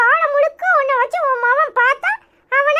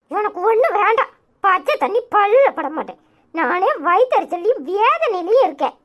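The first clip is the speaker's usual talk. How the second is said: lightly lowered granny voice in a sulk; grumbling grandmother; 5 semitones lower than usual. Acted. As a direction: lower grumbling old woman's voice. Grandmother refusing tea.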